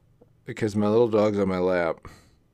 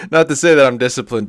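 sudden loud burst; 4 semitones higher, 12 dB louder than usual. Real, not acted. Laughing self-deprecating burst.

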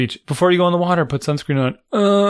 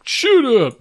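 high laughing mock scoff; mock shut up; 8 semitones higher, 4 dB louder than usual. Son retold mocking a silly simile.

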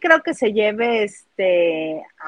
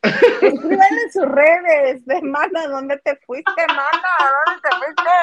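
laughing call; 6 semitones higher, slower than usual. Pretend. Calling out to missing friend.

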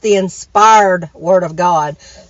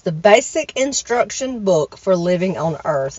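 reading a definition; slower than usual. Shown as a demonstration. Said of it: "And it says".

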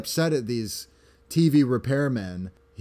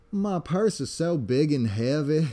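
put-on Southern Belle accent; 3 semitones higher than usual. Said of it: "Southern Belle accent of".

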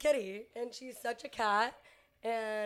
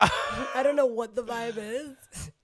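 raspy whisper. Real, not acted. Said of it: "I have no voice".

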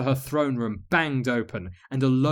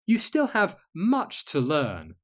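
dreamy; 4 semitones higher, slower than usual. Acted. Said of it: "smiled her dreamy smile".

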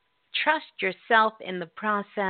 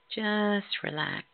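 right in your ear. Acted. Guided relaxation, close and soft.

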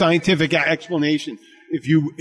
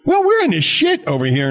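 high mock peasant; 10 semitones higher than usual. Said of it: "He goes".

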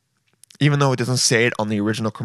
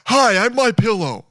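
lightly voiced pitchman, a bit higher; chirpy salesman greeting, mock; My Pillow guy impression; 8 semitones higher than usual. Host mimics the pillow salesman's ad greeting, lightly voiced. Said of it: "you guys know the My Pillow guy?".

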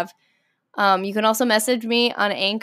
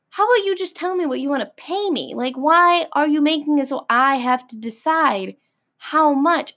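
exasperated; 3 semitones higher than usual. Acted. Arguing with imagined employer.

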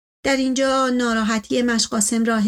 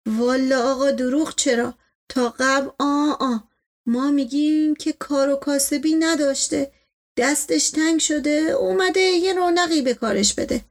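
lightly voiced servant, pitch climbing as he pleads; excusing servant; 3 semitones higher than usual. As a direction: make humble excuses to the master. Servant figure makes excuses.

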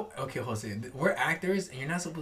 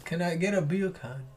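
soft attempted Jamaican accent; quiet mock Jamaican, "beer can" like bacon; 7 dB quieter than usual. Ordering as a joke, soft Jamaican accent. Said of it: "say bacon in a Jamaican accent".

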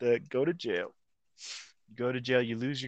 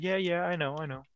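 higher-pitched mock agreeing; put-on eager yes-man reply; readily agreeing; 7 semitones higher than usual. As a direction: imitate someone hastily going along with it. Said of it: "he's, like, just agreeing to it".

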